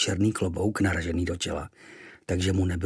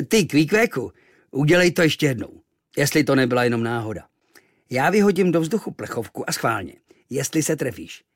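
challenging sailor; 4 semitones higher, 5 dB louder than usual. Acted.

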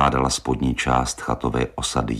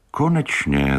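pleased. Acted. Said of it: "zaradoval se Exner".

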